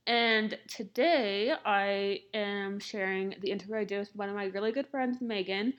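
talking around a mouth retainer; slight lisp, plastic in the mouth; lisp from jaw surgery. Real, not acted. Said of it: "so if it sounds like I have a lisp".

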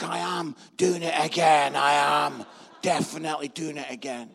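firm resolve. Retold or imitated. Husband meekly turns to firm resolve.

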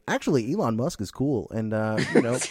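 laughing as a pretend contrarian; mock anti-union guy. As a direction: sneer it through laughter. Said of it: "I'm gonna be like".

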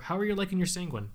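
talking through a burp; words pushed out around a burp. Real, not acted. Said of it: "as I burp".

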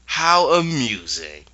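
hammed-up wicked witch amusement; gloating witch. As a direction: cackle through it like a delighted villain. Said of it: "And she goes".

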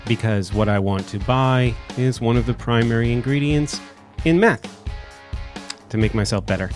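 stuffy nose from allergies; talking through a blocked nose. Real, not acted. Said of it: "sounds like I've got a clothespin on my nose".

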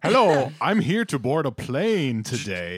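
fake grown-up voice. Kid pretending to board.

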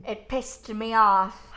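slow, hammed-up transatlantic accent; a transatlantic accent that drifts toward bad Irish. Shown as a demonstration. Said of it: "I can talk in a transatlantic accent".

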